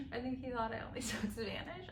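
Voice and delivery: laughing. Real, not acted. Laughing while telling.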